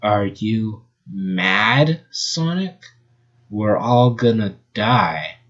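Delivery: mild, slow stretched panic; drawn-out mock fear; shrieked. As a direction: Fiona panicking at Sonic, slowly. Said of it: "shrieked Fiona".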